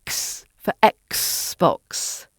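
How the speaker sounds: "Xbox" with a hissed k-s; "x" as bare ks, then "Xbox"; voiceless KS in X. Shown as a demonstration. Teacher explains the joke, voiceless ks in "Xbox". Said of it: "the X sound should be".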